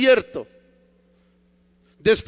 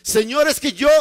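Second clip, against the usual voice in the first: higher, cut-off objection; Paul protesting; 4 semitones higher, 3 dB louder than usual. Acted. Paul tries to argue with the Lord, insistent protest. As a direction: start pleading your case insistently.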